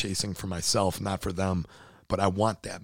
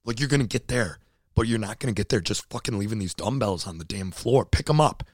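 self pep talk; 3 semitones higher than usual. Retold or imitated. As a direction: bark at yourself to pick the dumbbells up. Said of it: "and I'm like".

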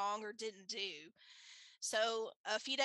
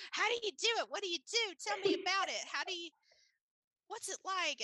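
high-pitched, eager rapid-fire questioning; retold excitement; 9 semitones higher, 4 dB louder, faster than usual. Friend quizzing her about the records, excited and high. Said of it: "she was so excited for me".

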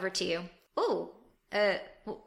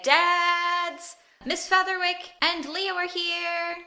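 announcing; 9 semitones higher, slower than usual. Acted. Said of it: "and say".

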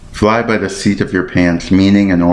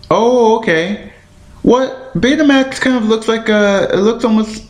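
surprised; 13 semitones higher than usual. Real, not acted. Surprised at how Betamax looks.

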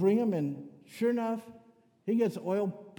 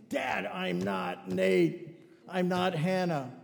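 put-on annoyed kid; much slower than usual. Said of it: "Gabe was always upset with me".

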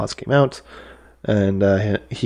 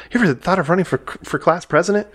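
higher-pitched quoted question; pitched-up movie quote; imitated movie line; 9 semitones higher, faster than usual. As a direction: lightly act out an admiring question. Quoting a movie character's line.

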